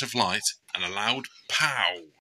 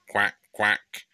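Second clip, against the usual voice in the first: lightly voiced little duck; small quack to Betty; duckling quack. Lost duckling answering Betty, small quack.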